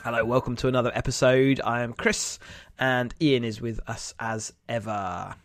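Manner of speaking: talking through a head cold; nasal voice. Real, not acted. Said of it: "Deep and moody voice today".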